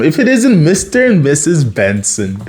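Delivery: lightly mocking greeting; mild put-on taunt. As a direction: tease the couple with a touch of mockery. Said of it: "mocking them".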